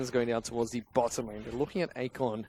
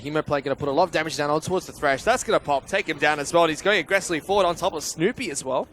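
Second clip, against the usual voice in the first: commentary building louder as the fight lands; esports play-by-play; 3 semitones higher, 6 dB louder than usual. Real, not acted. Caster calling a takedown in top lane, rising play-by-play. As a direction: build energy through the kill.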